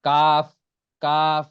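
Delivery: Arabic kaf demo. Shown as a demonstration. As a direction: snap কাফ out crisply. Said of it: "এরকম উচ্চারণ".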